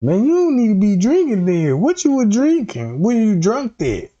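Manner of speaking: high, incredulous questioning; mock disbelief. Comic questioning the drinking-that-night excuse, high-pitched mock disbelief. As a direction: push the pitch up in rising disbelief.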